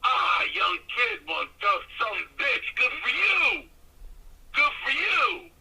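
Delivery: high, drawn-out crowing approval; hearty praise, imitated. Veteran wrestler praising the kid over the phone, imitated hearty approval.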